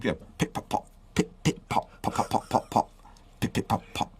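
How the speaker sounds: soft unvoiced pip and pop sounds; fizzing pip pop noises. Host tells co-host his head fizzed, soft popping noises. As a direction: mimic bubbles fizzing and popping in your head. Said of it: "my head was going".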